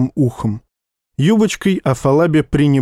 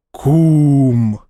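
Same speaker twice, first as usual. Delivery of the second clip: crowd shout. Acted. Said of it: "гаркнули туземцы".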